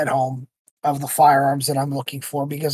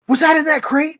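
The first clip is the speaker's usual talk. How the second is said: retold excitement; 9 semitones higher than usual. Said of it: "He goes".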